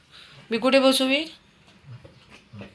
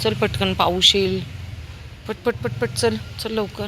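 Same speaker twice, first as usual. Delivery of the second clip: higher, louder urging call; calling the dog; 7 semitones higher, 4 dB louder than usual. Real, not acted. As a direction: hurry the dog along before rain.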